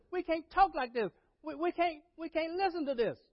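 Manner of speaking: high and loud, crying out that this is terrible; mock outraged protest. Leaders who tore their clothes protest to the crowd, high and loud. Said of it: "you're saying".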